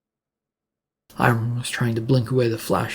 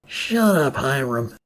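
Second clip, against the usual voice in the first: a cop snapping shut up at the prisoner, a mild shout; slower than usual. Acted. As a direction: cut him off with a pitched-up shout. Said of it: "Officer Maris shouted at him".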